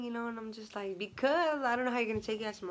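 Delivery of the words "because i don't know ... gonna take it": mock tearful. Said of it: "I start crying".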